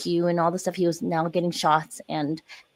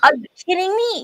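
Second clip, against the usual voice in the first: high, louder incredulous outburst; retold disbelief; 12 semitones higher, 5 dB louder than usual. Mother demanding answers from God, incredulous. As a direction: throw the question at God in outrage. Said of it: "I was so pissed".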